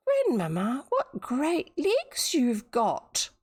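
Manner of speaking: put-on whispering girl. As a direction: breathe it out in wonder.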